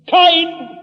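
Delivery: high, loud, resounding call; Stimme Gottes. Acted. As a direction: call out as God summoning a sinner. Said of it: "einmal tönt eine Stimme". (laut tönender Ruf Gottes)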